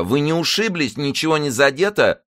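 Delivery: high, fussing womanish voice. A narrator's reading. Zaika checks whether Karolina is hurt, womanish. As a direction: fuss over someone in a high voice. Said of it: "голос его прозвучал совсем по бабье".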